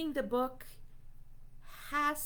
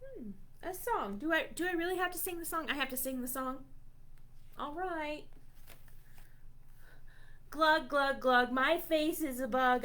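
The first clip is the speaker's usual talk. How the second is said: plain reading voice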